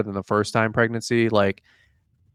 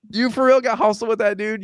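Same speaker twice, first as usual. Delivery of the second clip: incredulous teasing; 11 semitones higher than usual. Retold or imitated. Teasing his wife incredulously.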